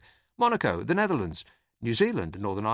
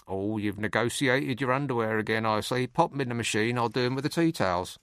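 lower, prim disapproving housewife voice; 3 semitones lower than usual. Retold or imitated. Comedian mocking the Prime Minister as a prim housewife. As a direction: tut at the laundry like a fussy mum. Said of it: "She says it like it's a bit distasteful".

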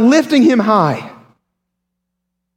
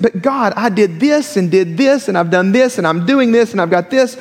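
listing to God. Retold or imitated. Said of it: "And we make our list".

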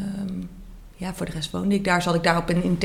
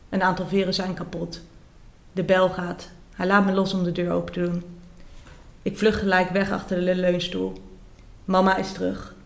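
measured reading voice for a dark memoir passage; story narration. Acted. Author reading her own book to the interviewer, steady narration.

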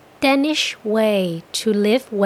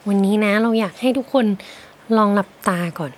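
gentle guided imagining. Acted. Host guiding listeners to picture a rainy window, calm and slow. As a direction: lead the listener into a cozy daydream.

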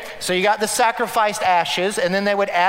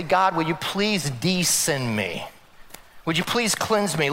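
pleading prayer; 2 semitones lower than usual. Retold or imitated. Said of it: "He's asking basically".

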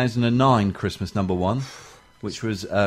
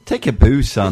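loud Scottish commentator impression; punchy mimicked catchphrase; Andy Gray; 6 dB louder than usual. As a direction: belt it out like a Scottish football pundit. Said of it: "he did say the ultimate".

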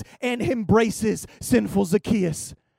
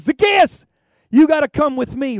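calling out; 2 semitones higher, 7 dB louder than usual. Retold or imitated. Jesus calling from the tree.

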